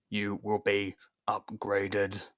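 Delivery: very slow mechanical robot; robot threat. Acted. Robot advancing on Liam, slow robotic threat. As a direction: menace him like a machine.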